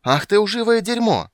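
high, loud screeching; screaming abuse. Acted. Blonde screaming abuse from the balcony. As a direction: scream down and spit. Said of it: "разоралась блондинка".

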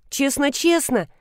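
put-on a boy thrilled at a promise; delighted child. A son hears his mother will stay, delighted. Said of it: "обрадовался он".

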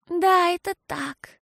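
slow, high, satisfied agreement; contented. A narrator's reading. Girl agrees with mama, slow and content. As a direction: savour it, pleased. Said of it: "удовлетворённо признала Фиасоль".

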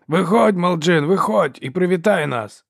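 high, loud, drawn-out coaxing; taunting call. A narrator's reading. Brother coaxes hidden Ferro out, calling tauntingly. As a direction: lure them out with a mocking holler.

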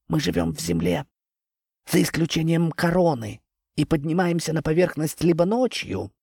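high, airy tree voice; a lofty tree explaining calmly; talking tree. Acted. (говорящее дерево)

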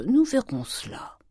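slow, high, whispery coaxing; caressing voice. A narrator's reading. Grandet putting off his wife, caressing. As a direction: coax gently, drawing the words out. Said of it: "d'une voix caressante".

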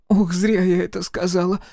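высокий смущённый голос матери; мать стыдится сказанного; смущённая мать. A narrator's reading. Mother embarrassed, blushing. (высокое смущённое «ох»)

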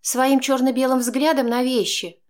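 Chaika, reproachful; explaining, shaking head. A narrator's reading. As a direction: explain in exasperation. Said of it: "пояснила она, качая головой".

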